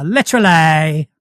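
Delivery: Essex accent leaning on the ending of literally. Shown as a demonstration. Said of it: "so for an Essex accent".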